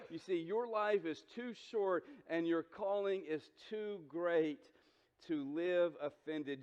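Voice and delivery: slowed right down, every word weighed; slow emphatic repeat. Shown as a demonstration. Pastor repeating his key line slowly to the church, slow and weighty. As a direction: lean on it slowly so it sinks in. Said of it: "you get this one statement".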